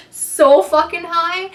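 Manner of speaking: "so fucking high" stretched slow, high and loud; drawn-out emphasis. Real, not acted. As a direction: drag out every word of "so fucking high". Stressing how high she felt.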